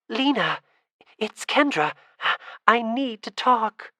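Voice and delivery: high, loud call across the water, slow at the end. Acted. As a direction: call out to someone unseen over a pond. Calling out over dark pond.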